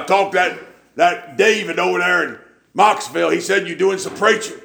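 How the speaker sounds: high-pitched imitated preacher, passing on news; preacher on the phone. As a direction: keep the voice up high as the preacher reporting. Voicing Brother Herbert on the phone.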